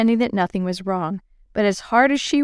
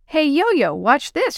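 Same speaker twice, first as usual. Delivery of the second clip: calling out; 7 semitones higher, slower than usual. Acted. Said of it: "she called".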